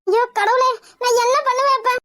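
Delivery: understated crying lament; tearful wail. Acted. Mother lamenting her kidnapped daughter, tearful. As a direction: lament helplessly through acted tears. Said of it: "அழுதுட்டு இருக்கிறது இப்ப நேரம் இல்ல".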